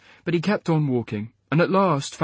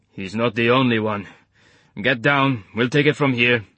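put-on Eastern European accent; 3 dB louder than usual. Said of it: "in his gloriously thick Eastern European accent".

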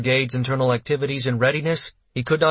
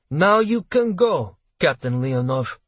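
imperious dismissal; 2 semitones higher, slower than usual. Acted. Colonel dismisses captain from his office, imperiously. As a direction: send a subordinate away with cool authority.

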